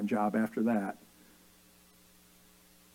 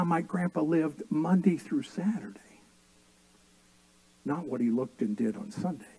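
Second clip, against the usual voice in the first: whisper; 6 dB quieter than usual. Acted. Hushed point in sermon.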